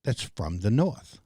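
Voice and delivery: code-switched northern accent, carefully spoken; northern speech. Shown as a demonstration. Back up north among northerners, northern accent. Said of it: "I got to speak like".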